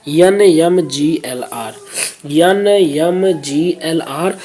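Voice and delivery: each letter drawn out slowly; slow spelling out. Real, not acted. Spelling out the answer code. (धीरे-धीरे एक-एक अक्षर)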